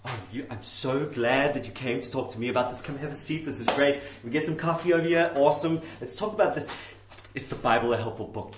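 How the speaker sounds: lightly voiced welcoming minister; mildly effusive clergyman; liberal minister. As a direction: gush politely over a visitor. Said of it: "This is what you'll get from one of those guys".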